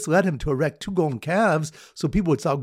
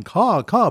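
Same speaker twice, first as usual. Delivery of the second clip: imitated caws, pitched up; mock bird cawing, higher than talk; weeping bird call; 5 semitones higher, 4 dB louder than usual. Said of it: "weeping and going".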